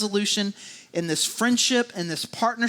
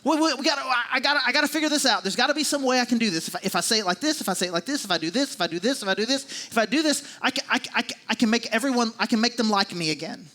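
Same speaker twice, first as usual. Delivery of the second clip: higher, rushed anxious inner voice; anxious overthinking; 3 semitones higher, faster than usual. Retold or imitated. Preacher voicing his own anxious inner monologue, higher and rushed. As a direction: spiral through the worried thoughts. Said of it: "I overthink things of just like".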